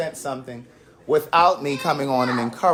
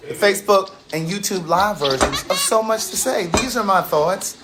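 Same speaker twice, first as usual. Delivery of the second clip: show sign-on; 2 semitones higher than usual. Acted. Host naming the live show to viewers, emphatic sign-on. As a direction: land the show's title like a slogan. Delivers show's scripted sign-on.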